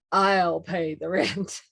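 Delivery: slow, steady hero voice; heroic rescuer. Pretend. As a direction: announce the rescue grandly. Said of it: "let's see if I can remember it".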